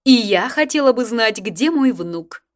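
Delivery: loud, imperious, slowing at the end; grande dame. A narrator's reading. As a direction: demand it like a regal old lady. Grande dame demanding her grandson.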